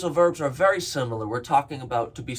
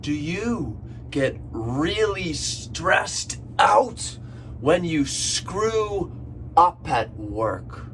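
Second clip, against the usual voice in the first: slow question; 3 semitones higher, slower than usual. Shown as a demonstration. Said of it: "One more time".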